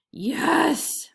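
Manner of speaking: loud angry yes; roaring. A narrator's reading. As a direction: bark it out. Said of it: "roared the tiger".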